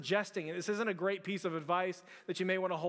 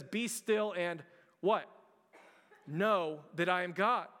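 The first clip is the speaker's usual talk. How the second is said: slow call and response. Acted.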